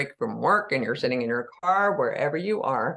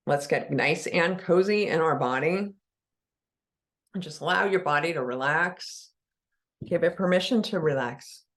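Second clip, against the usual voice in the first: unhurried meditation guide with long pauses between phrases; guided meditation. Real, not acted. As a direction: ease listeners into relaxing, leaving long silences.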